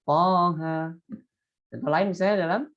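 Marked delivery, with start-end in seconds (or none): 0.1-0.9 Toha kept to two beats; short Toha. Shown as a demonstration. Teacher repeating the right short Toha for students. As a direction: clip Toha cleanly. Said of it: "jadi dua harokat".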